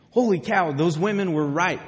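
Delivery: a touch of overjoyed amazement; mildly acted excitement. Disciples realising Jesus is here, acted excitement. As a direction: voice astonished believers, with a lift on the exclamation. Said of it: "And so they're excited".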